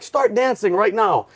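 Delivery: retold drill-instructor order; yelling drill instructor. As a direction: imitate an instructor giving a drawn-out order. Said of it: "they're all yelling with their hats".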